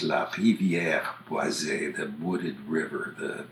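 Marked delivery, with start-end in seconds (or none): 0.0-2.0 La Rivière Boisée slowly, in French; La Rivière Boisée, unhurried, French R and final "zay"; French pronunciation. Shown as a demonstration. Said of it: "it's thought to be from a phrase".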